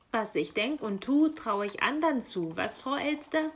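indignant, offended retort; scolding raven. Acted. Raven offended by the magpie's question, scolding. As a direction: scold her with a rising jab at the end. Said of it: "schimpfte der Rabe".

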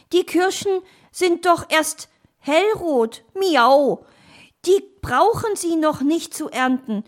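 high, loud talking-cat voice; cat character. Acted. Cat urges fox down from the tree, high cat voice. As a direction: play a storybook cat, miaow included.

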